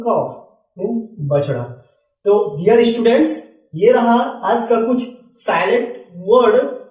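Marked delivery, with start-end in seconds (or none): 0.0-0.5 कॉफ with the L dropped; silent L. Shown as a demonstration. Teacher answering how calf is read, silent L in कॉफ. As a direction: say कॉफ with no L before f. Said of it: "इसे क्या पढ़ेंगे?".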